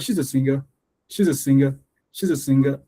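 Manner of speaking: "singer" stressed on SING, unemphasized ending; quick "singer", the last syllable kept light; correct reduced ending. Shown as a demonstration. Teacher repeating the right way, "singer" without emphasis on ga. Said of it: "I don't have to emphasize the ga".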